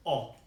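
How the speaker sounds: "o" as one short pure vowel, as in esto; vowel demo. Shown as a demonstration. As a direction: say "o" as a Spanish O sound. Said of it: "we have those two sounds".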